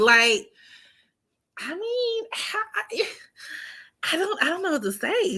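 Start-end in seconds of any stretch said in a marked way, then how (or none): 1.6-5.4 flustered unvoiced whisper. Real, not acted.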